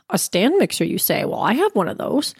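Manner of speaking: mock intrigued. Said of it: "my ears perked up".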